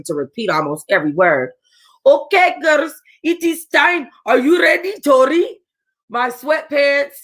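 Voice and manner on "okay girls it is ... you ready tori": put-on loud, high quote in a light Hispanic accent. Planner calling the bride to the aisle, light Hispanic accent. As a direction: call the girls in a heavy Hispanic accent. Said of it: "speaking to us in that Hispanic accent".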